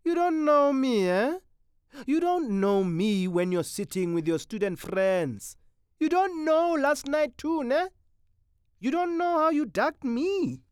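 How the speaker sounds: loud, high menacing snarl. Acted. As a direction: snarl it like a street thug. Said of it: "The Tsotsi snarled".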